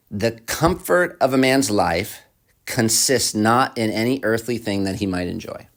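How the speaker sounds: slowly and deliberately, phrase by phrase; slow restatement. Shown as a demonstration. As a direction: repeat it slowly so they can hear it. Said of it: "Let me say it again, slowly, so that you can hear it".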